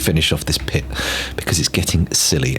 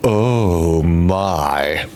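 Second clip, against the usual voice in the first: hiccuping; much slower than usual. Real, not acted. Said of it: "burping and hiccuping into the microphone".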